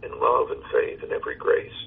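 measured verse reading with pauses between lines; poem recitation. Acted. Pastor reciting a hymn poem to his caller, measured recitation. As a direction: recite devoutly, lifting line openings and letting endings fall.

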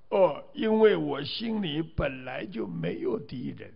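lightly voiced old lady, drawn into character; old woman's reply. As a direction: give a hint of an old woman answering. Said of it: "这个老妈妈说了". (轻微模仿老妈妈回答的语气)

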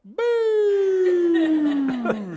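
long high loud boo; booing crowd. Retold or imitated. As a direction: boo like a disappointed audience. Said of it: "the audience just go".

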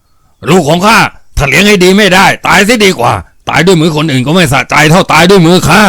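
furious father defying those who intervene; enraged father. A narrator's reading. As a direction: answer defiantly, in a rage. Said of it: "เสียงในหวนตอบว่า".

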